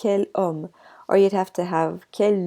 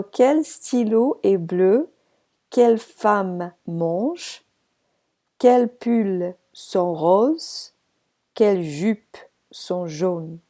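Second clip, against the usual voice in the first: slow model sentences; slower than usual. Shown as a demonstration. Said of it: "Because it all sounds the same".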